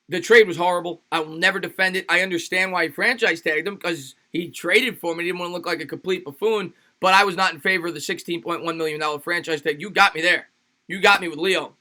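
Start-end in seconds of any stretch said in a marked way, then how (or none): none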